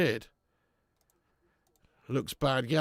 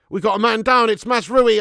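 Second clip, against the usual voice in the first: man down shout; 7 semitones higher, 8 dB louder than usual. Real, not acted. Sudden injury alarm on pitch.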